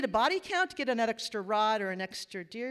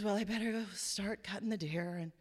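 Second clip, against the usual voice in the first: put-on exhausted voice, quieter; 8 dB quieter than usual. Retelling a husband's words after dinner, imitating someone exhausted. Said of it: "very exhaustedly says".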